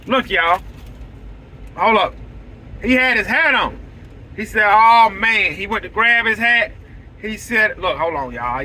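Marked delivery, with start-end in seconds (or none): 4.7-5.5 louder mock delighted oh man; happy client's louder oh man; imitated excitement. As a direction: do the client's thrilled reaction. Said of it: "That man was so excited".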